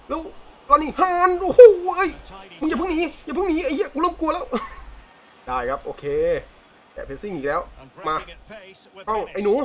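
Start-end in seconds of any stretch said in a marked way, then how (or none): 0.7-4.4 high, jolted cries at the chance; real nervy excitement; panicked yelp. Real, not acted. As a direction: yelp in real alarm, half laughing. Panicking as the striker breaks away.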